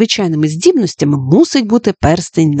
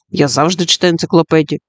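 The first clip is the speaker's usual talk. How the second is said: calmly. Acted. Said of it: "спокійно сказав Стінг".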